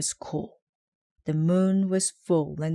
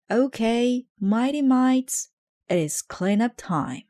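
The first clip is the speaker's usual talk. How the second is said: high, loud rallying yell; yelled call; 7 semitones higher, 5 dB louder than usual. A narrator's reading. Coach Kevin yelling to his team, high and loud. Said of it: "and Kevin yelled".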